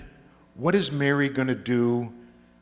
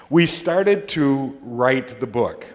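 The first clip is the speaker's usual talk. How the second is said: louder and slowed right down; emphatic slow announce; 6 dB louder, slower than usual. Real, not acted. Storyteller slowly, loudly announcing the book was started. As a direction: land the triumph slowly.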